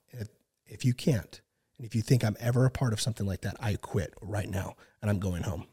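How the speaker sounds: retold stern warning. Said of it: "I was dead serious".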